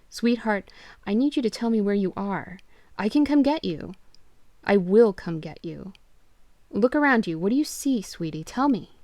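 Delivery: desperate to find her; urgent pleading. Acted. Father urgently pleading with his lost daughter on the phone.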